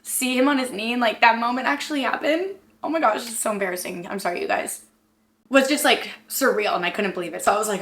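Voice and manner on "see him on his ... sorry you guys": close to tears. Real, not acted. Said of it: "Why am I gonna start crying?".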